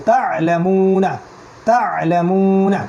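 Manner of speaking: তা লা মু না with a throaty push after "ta"; pushed ayn. Shown as a demonstration. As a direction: push the ayn in তা, then hold মু long. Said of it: "উচ্চারণ করার সময় ধাক্কা দিব".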